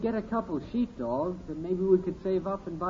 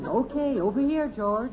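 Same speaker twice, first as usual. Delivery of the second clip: loud, raised dog-trainer call; 5 semitones higher, 6 dB louder than usual. Acted. Boy summoning a pretend dog, loud command.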